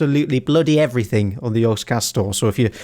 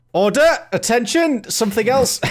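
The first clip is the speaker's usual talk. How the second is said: high mock parade-ground call; mock drill call; 8 semitones higher than usual. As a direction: call the platoon to order, playfully. Calling the platoon to attention.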